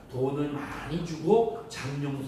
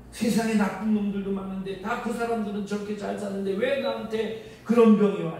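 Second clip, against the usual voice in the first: higher, building to a louder why; indignant outburst building up; angry grievance; 4 semitones higher, 3 dB louder than usual. Retold or imitated. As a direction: rant against unfairness, rising. Anger stage, voiced grievance.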